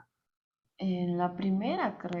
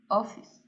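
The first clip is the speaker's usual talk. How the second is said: "office" with the weight on "off", "ice" light; stress on OFF; 7 dB louder than usual. Real, not acted. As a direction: lift your voice on "off" in "office". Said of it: "Tú misma lo levantas en el off".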